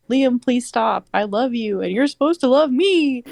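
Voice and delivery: hammed-up tearful begging; crying plea. A narrator's reading. Heroine begging her mate to stop, mock crying. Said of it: "I cried in the corner".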